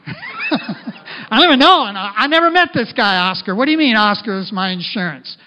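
daughter baffled by the insurer; upset daughter quote. Retold or imitated. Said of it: "Bryn goes".

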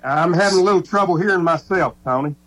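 distant, like through a wall; far away. Real, not acted. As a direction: sounds far off on the line. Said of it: "you sound so far away".

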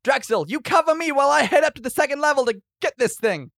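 high, loud in-character call to an ally. Acted. Warrior telling Drexel to cover him, high and loud.

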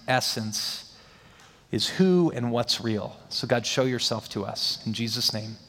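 a lightly hushed pastor's prayer; a touch of prayer voice; closing prayer. Acted. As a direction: pray it over the room, earnest and gentle.

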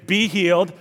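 restrained mock healing command; Benny Hinn impression. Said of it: "And usually he'd say".

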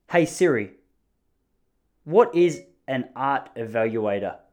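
slowed, careful command voice; talking to Siri. Real, not acted. Rephrasing his question to Siri, slowed down. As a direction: ask the assistant slowly and clearly. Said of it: "Don't judge the way that I speak to Siri".

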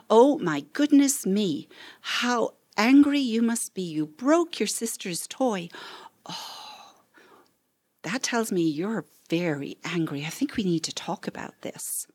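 calm mirroring, sinking to a hush; reflecting parent demo. Shown as a demonstration. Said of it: "you're reflecting back to them what you see".

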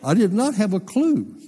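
talking through laughter; laughing. Real, not acted. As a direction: chuckle through the words. Laughing while retelling exchange.

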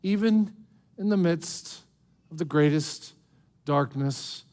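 tender reassurance. Real, not acted. Tender close of the sermon point.

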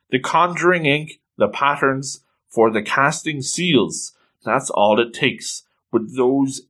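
calm, measured mentor explaining a secret; lightly acted reassurance, slowing into solemn explanation; Quifrey, calming. Quifrey calms crying Coco and explains the rule, calm and measured. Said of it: "He calms her down".

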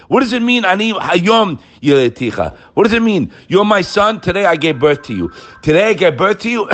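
amazed teacher unpacking a verse; excited questioning. Real, not acted. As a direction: ask it full of wonder. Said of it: "excited explaining".

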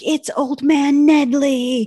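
hammed-up Scooby-Doo villain reveal. Podcaster mimicking a Scooby-Doo unmasking, slow and hammy. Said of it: "it reminds me of Scooby-Doo".

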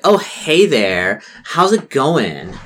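put-on mean girl voice; fake-sweet popular girl. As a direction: greet them with mock friendliness. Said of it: "Charlotte's like".

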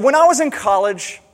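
raising his voice to make a point; an old man telling the youngster how it is; old man holding forth. Retold or imitated.

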